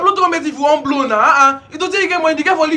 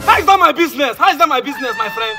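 sharp, indignant retort; irritated dismissal. Acted. Host rejecting the trumpeter's excuse, irritated. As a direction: cut the excuse off impatiently.

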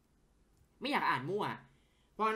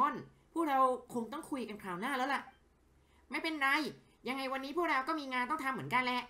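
acted character dialogue, livelier than his own chat; voicing game characters; 6 semitones higher than usual. Streamer voices game characters talking with a journalist, acted. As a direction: play each character's lines as a scene.

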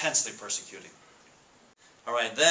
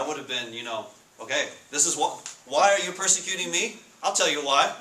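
imagined defiant reply; 2 semitones higher than usual. Retold or imitated. Pastor plays how he'd have argued with the Lord, mock indignant. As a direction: answer back like you're sure you're right. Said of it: "I would have said".

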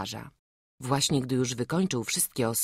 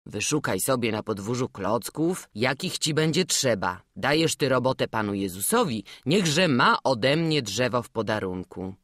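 a mild, gentle fatherly tone. Acted. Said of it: "łagodnym głosem przemówił".

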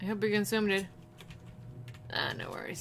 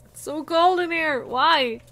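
mock shivering; 8 semitones higher, 10 dB louder than usual. Pretending to be cold.

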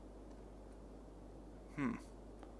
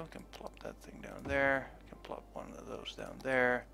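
whispering; 5 dB quieter than usual. Real, not acted. Muttering while placing buildings.

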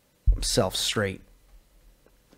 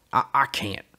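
hesitant refusal; 2 semitones higher than usual. Acted. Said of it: "he finally said".

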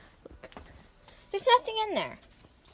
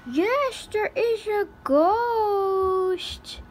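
ghost voice; 4 semitones higher, much slower than usual. Acted. Ghost prank continues.

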